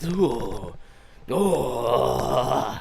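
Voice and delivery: long, drawn-out shivery "ooh"; low shuddering groans, as if shaking; imitated shaking shudder. Demonstrating the adrenaline dump on the drive home, shuddering. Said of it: "I was having weird body shakes".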